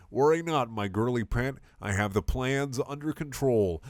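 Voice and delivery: cool calm. Acted. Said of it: "said Garfield with calm cool".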